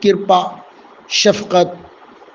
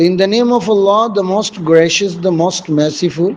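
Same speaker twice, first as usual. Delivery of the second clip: "in the name of Allah" repeated very slowly, word by word; slow second model reading for students; much slower than usual. Shown as a demonstration. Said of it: "ٹھیک ہے dear اسٹوڈنٹس؟".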